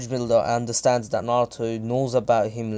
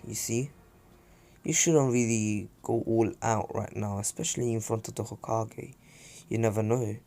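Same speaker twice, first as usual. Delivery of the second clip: Naruto; 6 dB quieter than usual. Retold or imitated. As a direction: lightly voice a quiet, casual menace. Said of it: "Naruto is a bit psychopathic here".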